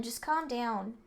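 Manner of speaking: usual speaking voice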